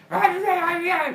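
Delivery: high, loud excited yeahs; excited squeal. Acted. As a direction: squeal with delight. Pandora excited about baby.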